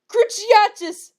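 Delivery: high, slow screamed curse; Harry screaming a curse, high and drawn out; screamed spell. A narrator's reading. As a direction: hurl the spell, stretched out. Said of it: "screamed Harry".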